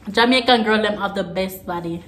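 Jamaican patois translation of the English line. Shown as a demonstration. Vlogger translating a phrase for viewers, in Jamaican patois. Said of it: "translate this in patois".

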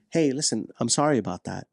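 defuse it gently; understated gentle apology to the wife; calm apology. Shown as a demonstration. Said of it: "you need to recognize that".

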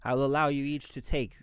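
imperious ruler granting terms; haughty villainess. Acted. Game master voices villainess.

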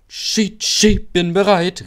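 high, loud whistle-like call; bright-pitched shout, drawn out. A narrator's reading. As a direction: pipe up like an eager little engine. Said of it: "rief er".

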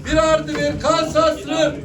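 slow drawn-out auction call; auctioneer. Real, not acted. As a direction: announce the lot slowly. Auctioneer announcing lot.

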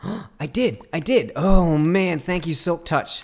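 thrilled disbelief; delighted gasp. Real, not acted. Gamer thanking Silk Touch after grabbing the spawner, overjoyed.

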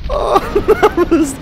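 high words lost in laughter; breathless laughing. Real, not acted. Player after two for one, high helpless laughing. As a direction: try to speak through a giggling fit. Cracking up at chain collapse.

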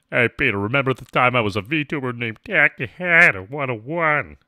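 loud put-on cutaway setup; comic character voice. Streamer reminding Peter of old times, loud character voice. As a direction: belt it out as a cartoon sidekick.

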